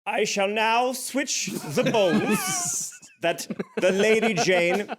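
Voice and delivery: high, drawn-out pompous announcement; announcing footman. Acted. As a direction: proclaim it slowly for all to hear. Acting footman announcing the switch aloud.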